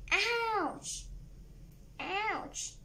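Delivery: acted cry of pain. Children pinched by goblins.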